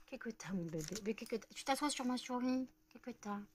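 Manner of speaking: soft, cooing questions to a pet; doting pet talk. Real, not acted. Asking the pet what's wrong, doting and soft. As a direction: coo with gentle concern.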